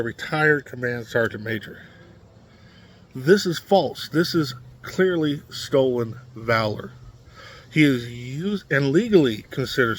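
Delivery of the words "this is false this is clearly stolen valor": forceful, raised-voice denial; emphatic declaration. Acted. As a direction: hit it hard and certain. Repeating the verdict, now with force.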